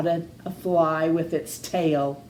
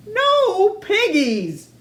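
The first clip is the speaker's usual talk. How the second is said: slow drawn-out; 12 semitones higher, 4 dB louder, slower than usual. Acted. Farmer's drawn-out refusal.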